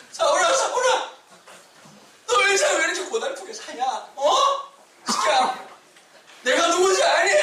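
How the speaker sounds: playful voice of the risen Jesus calling Saul. Acted. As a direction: call out to Saul with hammed-up urgency. Voicing Jesus to Paul.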